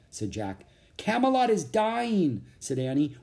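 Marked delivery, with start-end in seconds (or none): 1.0-2.4 put-on high, pressing child's voice; raised, anxious urgency; urgent. A narrator's reading. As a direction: plead that time is running out. Girl urges haste to save Camelot.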